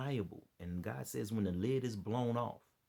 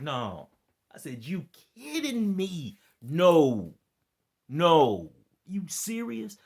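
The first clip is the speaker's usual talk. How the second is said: high, loud, slowed incredulous no; mock disbelief; 9 semitones higher, 13 dB louder, much slower than usual. Retelling his reaction to the comment, loud high disbelief. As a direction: act out the shock, big and high.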